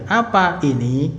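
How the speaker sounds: "Apa ini?" with a clear rise at the end; question intonation. Shown as a demonstration. Teacher demonstrates the intonation for asking what this is, questioning tune. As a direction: ask "Apa ini?", lifting the last word. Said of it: "Kalau pakai intonasi gitu ya".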